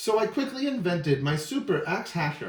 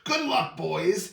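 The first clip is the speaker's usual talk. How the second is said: Lorax crying out; slower than usual. Acted. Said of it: "he cried".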